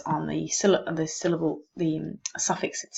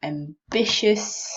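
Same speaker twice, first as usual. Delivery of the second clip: "Ambitious" slowly, weight on "bi"; stressed syllable demo; slower than usual. Shown as a demonstration. Teacher marking the stressed syllable, stress demo. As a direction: stretch "Ambitious" and lean on the middle syllable. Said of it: "this is the whole stressed syllable".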